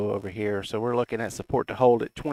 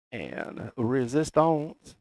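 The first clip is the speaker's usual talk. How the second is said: slow, badly faked French accent on resistance; clumsy French accent; much slower than usual. Vlogger calling chart levels in a botched French accent. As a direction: drawl resistance as if French, very slowly. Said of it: "my hillbilly voice tries to say something in French accent".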